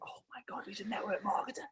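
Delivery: frantic stage whisper; imitating dad's hushed freak-out. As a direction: whisper it, squeaking with excitement. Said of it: "my dad's freaking out".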